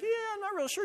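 high, soft, unsure mock voice; doubtful other guy. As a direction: squeak it out like a hesitant guy. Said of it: "And the other guy was like".

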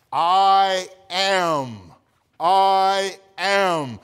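loud, ringing I am held long; "I am" declared slowly and loud; emphatic I am. Shown as a demonstration. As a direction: proclaim "I am" twice, weighty. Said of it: "repeating the divine name".

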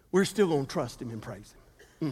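hushed, tender declaration of trust; soft reverent quote. Acted. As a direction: drop the voice low and soft. Quoting faith softly.

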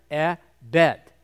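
"Eh, bet" with the short vowel set apart; eh, then bet. Shown as a demonstration. Helping the class hear the sound, "Eh" then "bet". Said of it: "we find that sound in the word bet".

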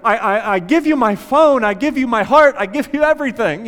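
mock panicked prayer. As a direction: beg God in mock desperation. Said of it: "they're freaking out and they're like".

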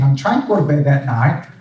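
usual speaking voice

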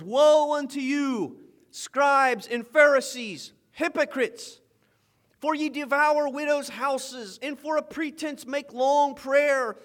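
measured preacher reading of the woes; scripture reading. Acted. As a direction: proclaim the woes like a prophet. Reads scripture aloud.

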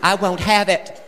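mom's catchphrase. Retold or imitated. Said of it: "That was her phrase".

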